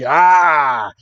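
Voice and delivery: drawn-out mock roar; open-voiced "ah" as an attack yell; imitated battle cry. Charizard charges in for the punch, mock roaring.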